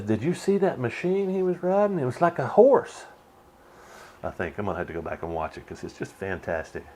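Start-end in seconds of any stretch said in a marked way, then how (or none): 0.0-3.1 higher, lightly voiced wondering cowboy; half-act a baffled cowboy; amazed cowboy. Cowboy marvelling at the motorcycle, lightly voiced. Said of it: "somebody says".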